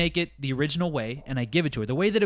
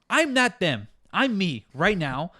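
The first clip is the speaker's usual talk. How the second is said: raised, exasperated rant at a customer; heated retort. Retold or imitated. Barista ranting at absent customer, heated retort.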